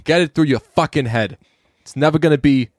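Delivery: half-successful Boston movie-line delivery; attempted Boston accent. Shown as a demonstration. Trying a movie line for a co-host, Boston accent. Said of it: "I can't do that".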